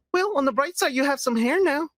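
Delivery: sweet Aunt May. Pretend. Aunt May voiced in a joke.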